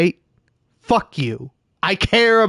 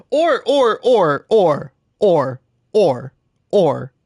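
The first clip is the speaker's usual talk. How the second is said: seal impression; slower than usual. Gamer clowning for the stream with a seal bark. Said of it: "That's my impression of a seal".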